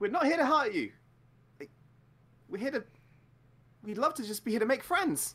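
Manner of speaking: put-on very high-pitched, sweet little boy voice. Voicing a character introduced as the sweetest little boy: sweet little boy voice. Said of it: "Kanan is the sweetest little boy".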